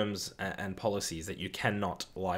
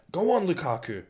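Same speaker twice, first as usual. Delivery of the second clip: high, loud urging shout; excited cheer; 8 semitones higher, 6 dB louder than usual. Real, not acted. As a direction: egg the striker on. Cheering striker during match.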